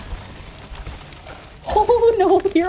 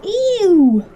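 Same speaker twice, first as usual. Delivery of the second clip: disgusted; 5 semitones higher, 4 dB louder than usual. Real, not acted. Disgusted reaction.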